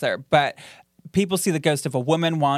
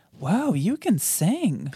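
slow amazed; 5 semitones higher, much slower than usual. Shown as a demonstration. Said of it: "Or D".

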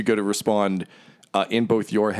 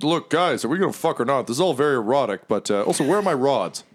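impatient demon, lightly voiced and higher; slightly raised, swooping complaint; Bell; 5 semitones higher than usual. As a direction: press them for an answer. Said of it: "Bell's like".

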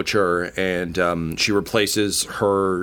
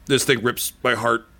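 wry dying man; 4 semitones higher, faster than usual. Acted. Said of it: "He's like".

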